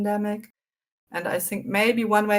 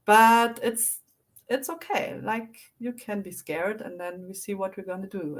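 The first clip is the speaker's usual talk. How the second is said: calm reassuring adult. Retold or imitated. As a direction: gently reassure a scared child. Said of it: "a nice, encouraging, calming voice".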